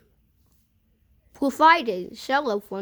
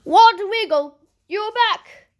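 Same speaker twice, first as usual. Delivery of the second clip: put-on excited old lady; 7 semitones higher, 6 dB louder than usual. Old lady greets the moose.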